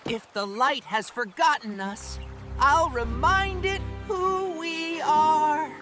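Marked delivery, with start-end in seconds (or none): 2.6-5.7 determined vow. Acted. Character vows to restore the light.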